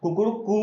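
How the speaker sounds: कुकुड़ कू as a mild mock rooster call, the कू held; rooster crow. Shown as a demonstration. Teacher imitating a rooster to show the long vowel, mild mock crow. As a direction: imitate a cock crowing, lightly. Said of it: "मुर्गे की बांग है".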